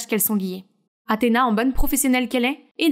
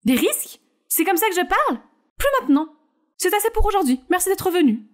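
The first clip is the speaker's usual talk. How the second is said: higher voiced characters bickering about an accent; coach and pupil; 3 semitones higher than usual. Coach criticises Scarlett's accent, higher and tense. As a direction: push back on the coach, a bit annoyed.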